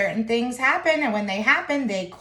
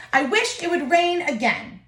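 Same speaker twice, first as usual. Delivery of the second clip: testing wish; 6 semitones higher than usual. A narrator's reading. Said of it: "he put the pebble on the ground and said".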